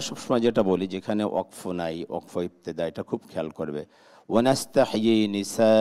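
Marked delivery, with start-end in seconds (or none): 4.3-5.7 "ওয়ানাস্তাহয়ি নিসা" with the last vowel drawn out; slow recited demo of "নিসা", vowel stretched; lengthened madd. Shown as a demonstration. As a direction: hold the long "aa" ending "নিসা". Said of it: "আর একটু লম্বা করতে হবে".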